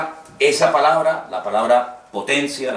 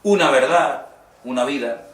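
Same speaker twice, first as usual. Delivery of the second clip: mock hesitant; 3 semitones higher than usual. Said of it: "Él no dice".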